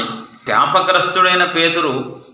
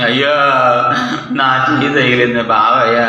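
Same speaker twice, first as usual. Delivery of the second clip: mock crying; 4 dB louder than usual. Bus passenger bawling over a bumped hand, mock crying. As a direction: wail absurdly over a tiny bump. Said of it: "అని ఏడుతారా?".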